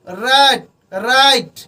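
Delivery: राइट with a strong rolled r at the start; stressed r. Shown as a demonstration. Teacher stresses the r in राइट. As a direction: lean hard on the r of राइट. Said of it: "र पर जोर देकर बोलते हैं".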